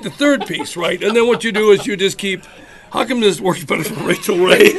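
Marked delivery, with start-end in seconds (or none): 2.9-4.8 laughing. Real, not acted. Laughing at his own mess.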